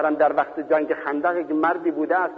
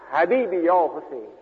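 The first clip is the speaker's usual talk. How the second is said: softer lament; 2 semitones higher than usual. Retold or imitated. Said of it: "دو بار یا سه بار فریاد کشید".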